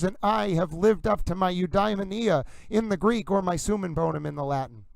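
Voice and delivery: lofty mock-formal speechifying; grand oration. Addressing ladies and gentlemen, a mild mock-grand oration. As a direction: orate to the public like an old broadcaster, lightly.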